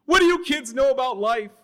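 high, loud yell; drunk men yelling. A narrator's reading. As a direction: holler it across the tracks. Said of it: "the men would yell back".

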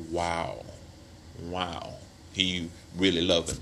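an onlooker taken in; mock awe. Onlooker fooled, mock admiration.

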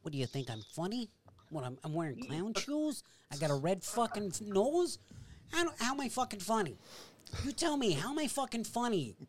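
quiet threatening gangster grilling; understated Goodfellas menace; Joe Pesci "funny how" impression. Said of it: "That is a really great impersonation".

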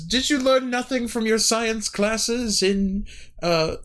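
slow, high, scolding teacher tone; a hint of an exasperated schoolmarm; condescending. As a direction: talk down to them slowly. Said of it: "she says".

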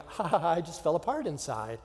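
light forced chuckle into deadpan; fake casual laugh. Son answering his mom, falsely breezy. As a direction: laugh off falling apart.

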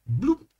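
short, high bloop; imitated notification bloop. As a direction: mimic a phone alert popping up. Imitates phone notification pop-up.

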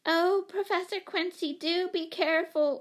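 high, anxious plea; imploring. A narrator's reading. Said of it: "implored Miss Giddings".

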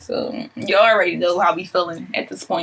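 a few drinks in. Real, not acted. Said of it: "we drunk".

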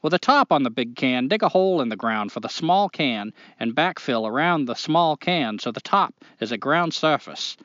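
put-on reading a letter in a Maine accent. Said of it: "do the whole thing in a Maine accent".

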